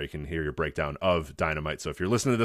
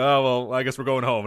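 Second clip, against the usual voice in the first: mock shrug; 5 semitones higher, 5 dB louder than usual. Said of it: "they go".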